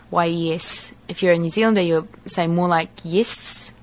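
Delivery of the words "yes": yes with a very short tight e; New Zealand yes. Shown as a demonstration. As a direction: clip yes short, Kiwi style. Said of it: "a really short E sound".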